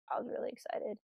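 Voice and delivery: a thrilled secret whisper; whispered excitement. Real, not acted. Telling her co-host the payoff came, whispered. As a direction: whisper it like you can't contain the thrill.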